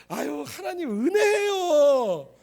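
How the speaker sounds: loud, high, drawn-out mock praise; grateful churchgoer. Preacher mimicking a sick believer, exaggerated gratitude. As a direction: imitate a fervent believer, stretching the words out. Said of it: "그러면서 뭐라 그래요".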